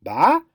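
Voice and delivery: "ba" with a sharp rising question tune. Shown as a demonstration. Teacher showing English question rise on a syllable. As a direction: turn "ba" into a question going up. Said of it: "rising intonation at the end".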